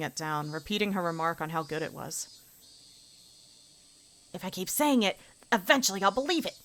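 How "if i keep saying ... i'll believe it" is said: bright high schoolgirl praising lunch through clenched politeness; girl character voice. Acted. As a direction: voice a girl faking enthusiasm. Character forcing herself.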